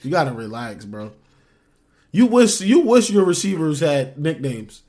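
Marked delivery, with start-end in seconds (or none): 2.1-4.8 teasing. Real, not acted. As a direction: rub it in, slowly. Trash talk between friends.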